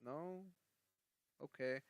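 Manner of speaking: soft, hesitant retold plea; imitating fading plea. Homeless man asking passers-by for prayer, imitated fading plea. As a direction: imitate someone softly giving up. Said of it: "his voice going lower and lower".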